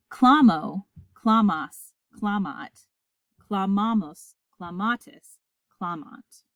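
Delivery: measured choral-drill recitation, form by form; paradigm recitation. Shown as a demonstration. Latin teacher leads students through the conjugated verb, reciting. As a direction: recite each form separately, leading the class. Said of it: "Let's recite it together".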